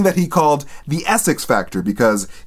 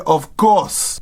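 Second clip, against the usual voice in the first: Haitian mother; 3 semitones lower than usual. Retold or imitated. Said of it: "my religious Haitian mother".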